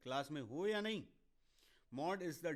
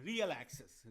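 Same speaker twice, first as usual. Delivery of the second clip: laughing; faster than usual. Real, not acted. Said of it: "हम X एक्सिस नहीं बोलेंगे, हम बोलेंगे".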